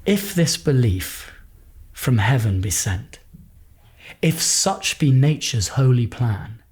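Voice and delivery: slow, measured reading with long pauses; poem reading. Acted. Actor reads Wordsworth's poem aloud, slow and measured. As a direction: read the whole poem slowly and gently.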